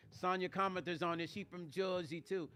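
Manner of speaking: playful, hammed-up Jersey accent; exaggerated Jersey accent. Shouting out her Jersey folks, exaggerated Jersey accent. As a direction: lay the Jersey vowels on thick. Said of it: "over-exaggerating my Jersey accent".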